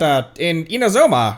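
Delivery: ordinary talk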